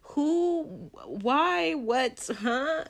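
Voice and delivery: high, stammering disbelief; can't even form the question; baffled. Real, not acted. Vlogger baffled at the director, high and stammering. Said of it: "baffled at the director".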